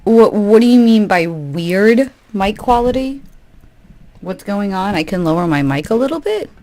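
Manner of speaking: rattling, crackly mic distortion; distorted mic. Real, not acted. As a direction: voice rattling like an overdriven speaker. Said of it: "you sound a little distorted".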